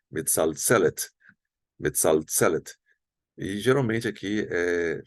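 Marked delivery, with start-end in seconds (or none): 0.1-2.7 metzaltzelet stressed on the TZE syllable. Shown as a demonstration. Teacher showing the stressed segol, metzaltzelet stressed on TZE. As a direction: lean on TZE in metzaltzelet, let the last syllable drop. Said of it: "a tônica fica geralmente nessa primeira".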